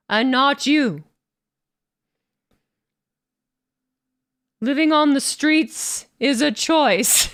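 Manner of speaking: slow, smug, lightly put-on arrogant champion; a hint of a pompous wrestler voice, drawn out; Gunther impression. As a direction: lay out each word like a haughty heel. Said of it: "Do the Gunther impression with it".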